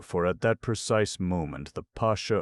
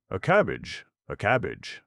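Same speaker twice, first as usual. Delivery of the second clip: louder, higher sputtering repeat of cabbage; choked fury; 5 semitones higher, 6 dB louder than usual. Acted. Pasha offered a cabbage, choking with rage. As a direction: choke on the word in outrage. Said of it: "choked Irashi".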